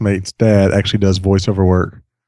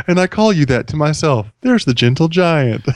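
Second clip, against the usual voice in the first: melodic voice; 5 semitones higher than usual. Shown as a demonstration. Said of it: "His voice was melodic".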